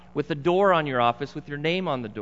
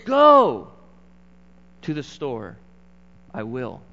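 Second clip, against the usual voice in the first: Greek word order; 3 semitones lower, 8 dB louder, slower than usual. Retold or imitated. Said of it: "The Greek writer would say".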